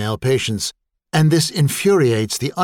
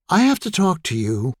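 pathetic plea; 6 semitones higher than usual. Acted. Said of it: "she said pathetically".

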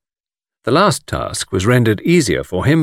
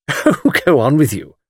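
coquettish; 5 semitones higher than usual. A narrator's reading. Miss Taylor flirts with the guide, coquettishly. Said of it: "cried Miss Taylor coquettishly".

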